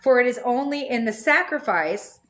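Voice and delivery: measured reading of a spiritual text; calm book reading; reading a text aloud. Acted. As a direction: read it out steadily like a passage. Reads book passage aloud.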